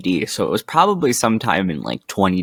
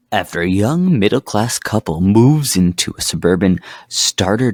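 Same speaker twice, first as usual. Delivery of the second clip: trucker voice. Acted. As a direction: read it like a trucker on the CB. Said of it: "Tim with his trucker voice".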